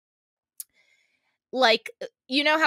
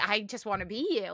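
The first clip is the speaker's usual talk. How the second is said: softer, wistful murmur; longing sigh; 2 semitones lower, 7 dB quieter than usual. Retold or imitated. Wishing to be the French girl, soft sigh. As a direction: sigh it like a smitten admirer.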